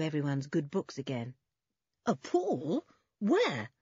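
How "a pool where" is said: eager questioning, pitched up. A narrator's reading. Boy hears of a pool to bathe in, eager. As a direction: perk up with keen interest. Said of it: "said Dick eagerly".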